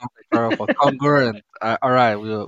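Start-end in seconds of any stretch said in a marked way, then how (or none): 0.8-1.4 congruent with a heavy CON and blurred ending; mispronounced attempt. Real, not acted. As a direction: try congruent, landing wrongly on the first syllable. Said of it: "You still got it wrong".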